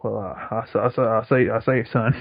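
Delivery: lightly voiced blustering Southern rooster; Foghorn Leghorn. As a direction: stammer like a Southern cartoon windbag. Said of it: "Fucking Froghorn Leghorn".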